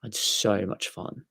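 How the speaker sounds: Aussie O's in "know" and "so"; put-on Australian vowels; Australian accent. Shown as a demonstration. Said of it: "that's how Australians do their O's".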